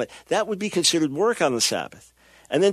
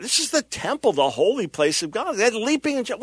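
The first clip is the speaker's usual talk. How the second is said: high-pitched acted indignation; outraged; 6 semitones higher than usual. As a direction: play a scandalized temple worshipper. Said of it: "People be outraged over it".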